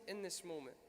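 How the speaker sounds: dying slave's prayer echoed softly; fading echo. Retold or imitated.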